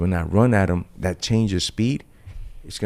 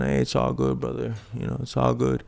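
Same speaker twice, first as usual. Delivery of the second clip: mock chill; 3 semitones higher, 5 dB quieter than usual. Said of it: "I came out chilling".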